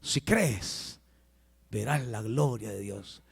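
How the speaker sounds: low, hushed repeat; repetición suave. Acted. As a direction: say it softly and low, letting it settle. Repeats the reply softly. (en voz baja, suave y grave)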